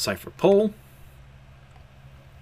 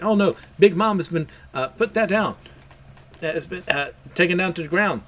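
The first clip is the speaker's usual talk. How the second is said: panicked crowd; 6 semitones higher than usual. Acted. Crowd freaking out.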